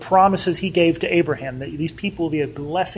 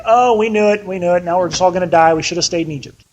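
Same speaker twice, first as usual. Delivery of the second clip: mock freaking out; 4 dB louder, faster than usual. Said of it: "now they're freaking out saying".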